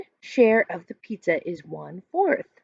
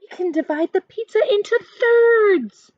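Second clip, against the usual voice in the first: put-on higher, louder kid's idea; eager boy; 12 semitones higher, 5 dB louder than usual. A narrator's reading. Dylan proposes thirds to the girls, lightly voiced. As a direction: pitch it up like a bright kid. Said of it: "Dylan says".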